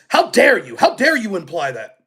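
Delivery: mock indignant retort; incredulous. Host imitates the politician rebuffing a question, mock incredulous. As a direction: act out a touch of affronted disbelief. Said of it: "She became incredulous".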